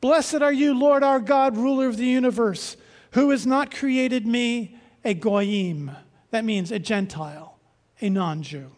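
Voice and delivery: measured, solemn liturgical recitation; recited prayer. Retold or imitated. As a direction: intone it like a morning prayer. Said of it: "It starts with something like this".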